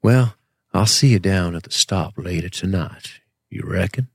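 Southern accent with long vowels; fake Southern drawl. Shown as a demonstration. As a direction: draw the vowels out like a mock Southerner. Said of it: "do these longer vowels like this".

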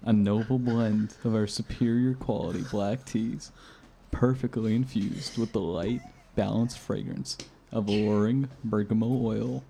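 sensual reading. Pretend. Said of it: "do you wanna try reading it sensually".

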